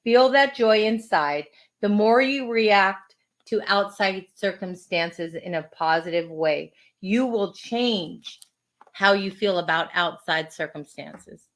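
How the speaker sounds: measured, deliberate quote reading; unhurried reading with space between phrases; inspirational reading. Acted. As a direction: read it out as a gentle affirmation lesson.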